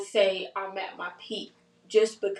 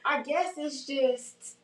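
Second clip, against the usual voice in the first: tearful laugh; 9 semitones higher, 4 dB louder, slower than usual. Real, not acted. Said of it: "I didn't want you to cry".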